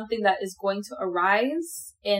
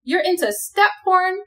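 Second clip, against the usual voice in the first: appalled; 4 semitones higher, slower than usual. Retold or imitated. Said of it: "I'm gonna figure out that".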